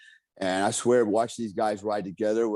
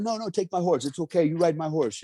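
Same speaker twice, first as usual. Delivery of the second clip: pushy stable hand; 6 semitones higher than usual. Retold or imitated. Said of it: "He goes".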